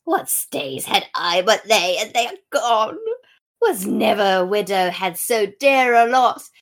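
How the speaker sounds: loud, hammed-up mourning; theatrical lament. Widows competing in grief, mock tragic declaiming. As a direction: declaim the loss loudly, over-acted. Women's laments acted in turn.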